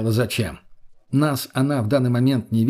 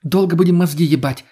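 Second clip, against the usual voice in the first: louder, higher angry cut-off; 5 semitones higher, 5 dB louder than usual. A narrator's reading. Lena angrily cutting off the men's bickering. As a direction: shut them up in a rage. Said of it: "зло остановила их Лена".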